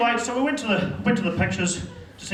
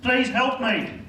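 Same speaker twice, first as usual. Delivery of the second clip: higher, imploring little prayer; pleading prayer; 5 semitones higher, much slower than usual. Acted. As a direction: beg God for rescue. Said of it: "I'm praying to God".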